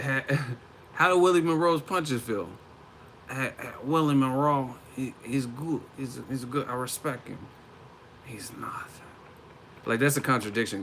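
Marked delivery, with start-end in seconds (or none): 0.0-7.4 lightly imitated Kazakh accent; a halting hint of Kazakh accent; Golovkin. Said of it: "happened to your accent". 8.3-8.9 hushed, imitated Kazakh accent; Golovkin. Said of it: "happened to your accent".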